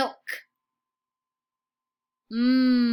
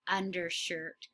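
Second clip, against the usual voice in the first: quiet repeat of undershirt; softer echo; 4 semitones lower, 7 dB quieter, slower than usual. Shown as a demonstration. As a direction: echo "Undershirt" softly after the model. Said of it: "say it right before the teacher".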